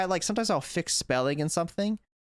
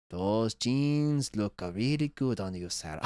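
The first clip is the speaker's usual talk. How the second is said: lower, slow, flat class chant; bored monotone; 5 semitones lower, slower than usual. Retold or imitated. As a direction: drone it like bored students. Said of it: "And they're".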